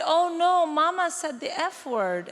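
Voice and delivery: put-on high, loud little-girl gasp of shock; tattling child. Youngest daughter tattling on mum at Sunday lunch, high shocked voice. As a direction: squeal it like a scandalised little girl.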